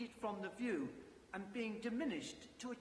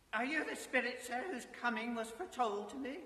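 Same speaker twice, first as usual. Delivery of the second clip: put-on old Scrooge voice; 5 semitones higher than usual. Scrooge questions the ghost.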